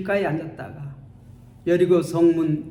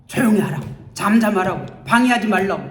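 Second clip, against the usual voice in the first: scolding; 4 dB louder, faster than usual. Acted. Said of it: "막 꾸짖습니다".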